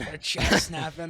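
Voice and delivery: put-on slow, confused old man voice. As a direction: mangle it like a grumpy grandpa. Old man mangling app names.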